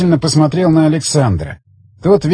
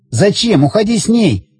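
higher-pitched character voice; raised, insistent man's voice; tense bomb holder; 7 semitones higher than usual. Acted. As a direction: explain it with strained urgency, pitched up. Voices Zagorsky pleading with Tigran.

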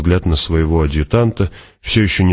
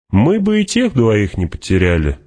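Fremen warrior; 5 semitones higher than usual. Acted.

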